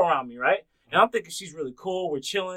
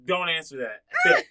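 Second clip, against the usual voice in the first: mom's blunt order; 6 dB louder, much slower than usual. Retold or imitated. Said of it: "my mom was like".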